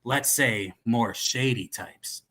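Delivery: put-on cowboy accent. Dealer boasting of other buyers, cowboy accent. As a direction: arms dealer talking like a cowboy. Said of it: "the cowboy".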